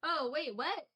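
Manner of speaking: high, sudden startled cry; real surprise at a chat message; startled oh wait. Real, not acted. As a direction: caught off guard, jump in pitch. Reacting to chat comment.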